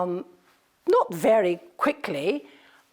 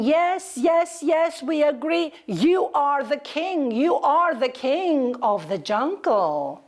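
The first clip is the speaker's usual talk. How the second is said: cheering crowd; 5 semitones higher than usual. Acted. Animals cheer the lion.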